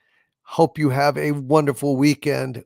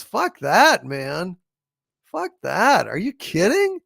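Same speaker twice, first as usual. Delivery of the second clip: loud, higher disbelief; indignant outburst; 4 semitones higher, 4 dB louder, slower than usual. Real, not acted. Reacting to a viewer's pricier membership, loud indignant scoff. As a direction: scoff hard at the price. Outraged at price hike.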